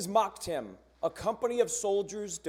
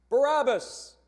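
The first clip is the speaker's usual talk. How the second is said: loud, high single-name shout; mob scream; 6 semitones higher, 5 dB louder than usual. Acted. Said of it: "they screamed".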